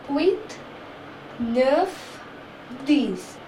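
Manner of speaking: un to dix counted slowly in French; each number spaced out with a rise. Shown as a demonstration. Teacher counting one to ten in French. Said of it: "this is the pronunciation".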